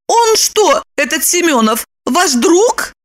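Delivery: high, confused; confused Lipochka. A narrator's reading. Lipochka puzzled, asking Roman. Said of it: "Липочка растерялась".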